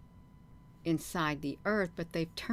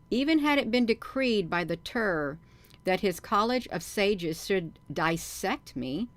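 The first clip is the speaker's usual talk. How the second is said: measured read-aloud with emphasis; story narration; 3 semitones higher, 5 dB louder than usual. A narrator's reading. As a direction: read the footnote out deliberately. Reads the book footnote aloud.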